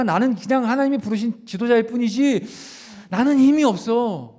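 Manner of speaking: 나는 힘이 없어 dragged out in a strained, pleading voice; Moses pleading. Retold or imitated. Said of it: "모세가 이러잖아요".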